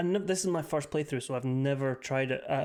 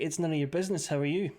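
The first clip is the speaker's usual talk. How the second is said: half-hearted Northern Irish accent on "It's none of your business, how are you?"; faster than usual. Shown as a demonstration. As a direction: say it with a reluctant Northern Irish lilt. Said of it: "There, I tried, I tried, I'm sorry".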